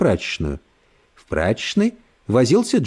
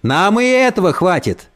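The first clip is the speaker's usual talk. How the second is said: a touch louder, higher repeat; a bit louder; 5 semitones higher than usual. Acted. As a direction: say it again a little louder. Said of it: "повторил ещё раз чуть громче".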